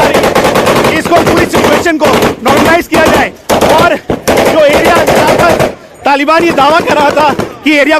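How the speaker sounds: urgent live report under fire; war correspondent. Real, not acted.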